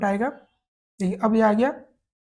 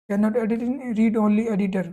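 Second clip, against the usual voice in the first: slow read-out; much slower than usual. Shown as a demonstration. Slowly reading the error message aloud.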